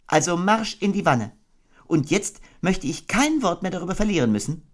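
gently firm; fairly serious Kanga. Acted. Kanga answering her baby, fairly seriously.

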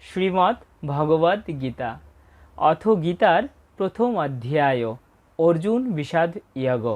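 slow, reverent recitation opening; slow chanted opening of the Gita lesson; solemn invocation. Acted. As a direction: intone the opening like a prayer.

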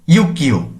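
ইউকিও said slowly with a doubled k, "yuk-kkyo"; slow ইউকিও with a tense double k; tensed k sound. Shown as a demonstration. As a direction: model ইউকিও slowly, holding the k before releasing it. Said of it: "এক্ষেত্রে উচ্চারণ কেমন হচ্ছে?".

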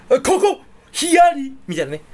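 laughing. Real, not acted. Laughing at his own gag.

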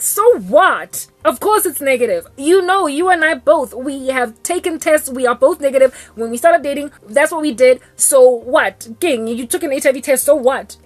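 mock the answer he should have given; a lightly voiced indignant boyfriend; emphatic retort. Voicing the answer he should give.

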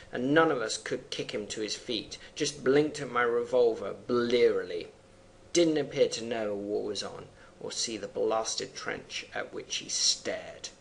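measured poem recitation; poem reading. Acted. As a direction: read the verse with weight. Reads poem aloud.

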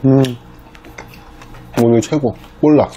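talking while chewing food; eating and speaking at once; mouth full, chewing. Real, not acted. Seen 0: Puts fish in mouth at 0.1, then talks while chewing.

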